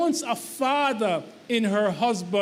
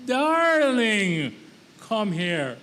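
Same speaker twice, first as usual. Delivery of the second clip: gentle darling call; much slower than usual. Retold or imitated. Wife repeating her actual words, gentle call. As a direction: call him sweetly, the message sent. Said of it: "I said".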